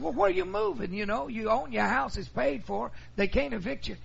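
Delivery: very high, loud disbelief; high-pitched son baffled by the move; alarmed son. Retold or imitated. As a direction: push up in alarmed confusion. Alarmed son questioning mother.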